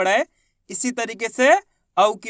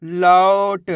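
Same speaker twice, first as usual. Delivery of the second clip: लौट as one whole word; sounds joined; much slower than usual. Shown as a demonstration. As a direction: blend लौ and ट without a pause. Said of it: "तो मिलके बन जाएगा".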